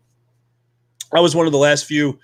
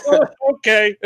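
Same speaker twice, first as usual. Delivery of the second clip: meek squeak; 11 semitones higher, 4 dB louder than usual. Retold or imitated. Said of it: "I'll be like".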